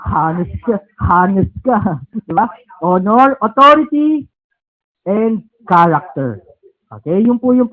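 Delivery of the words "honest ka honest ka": "Hanes" with an audible h, mocking a mispronounced "honest"; amused mimicry of "Hanes" with the h pronounced; h sounded. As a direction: tease the mistake, sounding the h in "Hanes". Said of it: "Meron kasi nagpapronounce".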